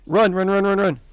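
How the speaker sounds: loud, high urgent "run"; yelling while running away. Real, not acted. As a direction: shout at them to flee. Urging ships to flee.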